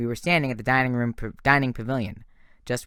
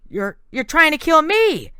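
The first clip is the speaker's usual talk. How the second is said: high, loud, stammering panic; a scared boy accusing him; terrified scream; 8 dB louder than usual. A narrator's reading. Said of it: "Nico screamed".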